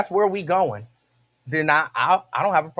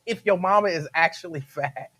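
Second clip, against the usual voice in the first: amused question breaking into a laugh. Real, not acted. Asking if an insult is really an insult, laughing. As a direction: ask it while fighting off laughter.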